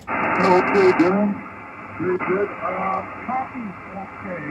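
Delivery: like a distant station on shortwave; fading shortwave radio. Real, not acted. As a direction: voice over a ham radio link. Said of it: "I've got heavy fading, a lot of Q S B".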